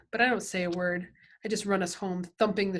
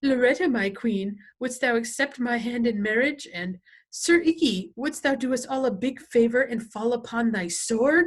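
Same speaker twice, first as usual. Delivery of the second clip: higher, louder hammed-up chivalrous knight; mock knight talk; 4 semitones higher, 6 dB louder than usual. Freak strutting and clowning in olde knightly speech, hammed up. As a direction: strut through it like a pompous knight. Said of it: "strutting around and saying stuff like".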